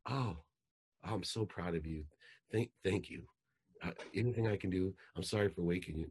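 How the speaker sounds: quiet, grateful and tender; soft thanks to a sleepy daughter; soft proud dad. Retold or imitated. Dad thanks his daughter on the phone, quiet and tender.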